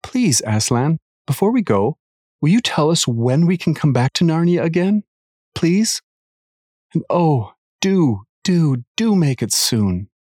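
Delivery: put-on high, pleading little girl voice; pleading child. A narrator's reading. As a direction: beg Aslan like an eager child. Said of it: "Lucy says".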